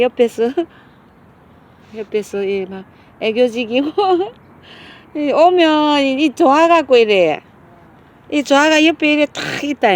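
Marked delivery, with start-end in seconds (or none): 5.2-9.9 laughing. Real, not acted. Laughing at the clingy dog.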